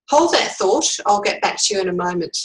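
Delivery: firm polite interruption stopper; polite yet assertive. Shown as a demonstration. Coach showing how to stop a bully interrupting in a meeting, politely firm. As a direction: politely hold the floor. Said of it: "politely yet assertively".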